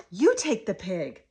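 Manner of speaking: mild gasp of play excitement; gasp, then invite the child to take it; excited prompt. Shown as a demonstration. Models handing toy to child.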